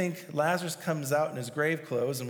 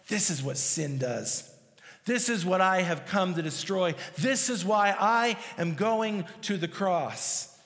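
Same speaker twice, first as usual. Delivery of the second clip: irritated indignation; 2 semitones higher than usual. Retold or imitated. Jesus at Lazarus's tomb facing death, with building indignation. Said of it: "moved deeply with an irritated indignation".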